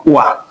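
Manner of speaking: Oua as a single wa; one blended sound. Shown as a demonstration. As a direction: glide O and I together into one Oua. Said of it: "forment un seul son".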